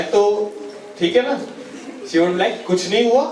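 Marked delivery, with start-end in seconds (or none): 2.7-3.2 acted wife's first brush-off; brush-off denial. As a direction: deny it briefly, not yet insisting. (पत्नी का टालने वाला जवाब)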